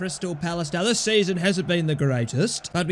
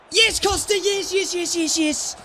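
excited cheering; 10 semitones higher than usual. Real, not acted. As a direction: cheer the save. Keeper save celebrated.

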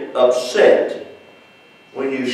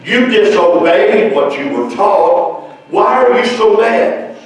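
higher-pitched preacher's reproach; stern questioning; 5 semitones higher than usual. Acted. God confronting Cain over his rejected sacrifice, stern questioning. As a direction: press the wrongdoer for an answer.

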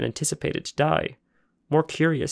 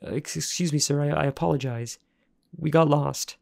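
higher, halting, scared apology; nervous stammer; 3 semitones higher than usual. Acted. Frightened boy apologizing to the junkyard man, stammering. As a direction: stumble over the apology.

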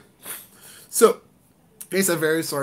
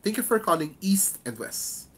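"East and West" set out clearly at the end; careful greeting, each word of "East and West" separate; focus on company name; 3 semitones higher than usual. Shown as a demonstration. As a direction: make EAST and WEST distinct. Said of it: "focus on the name of the company".

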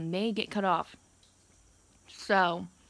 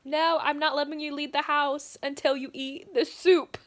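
doting caretaker; 5 semitones higher, 4 dB louder than usual. Retold or imitated. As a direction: fuss over her like a nurse. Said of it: "He's like".

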